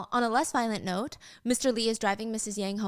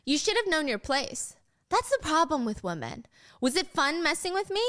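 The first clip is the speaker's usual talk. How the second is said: raised-pitch villain taunt; 6 semitones higher than usual. Acted. Michael taunts Gia as he hunts her, taunting. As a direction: toy with cornered prey. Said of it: "he's just taunting her".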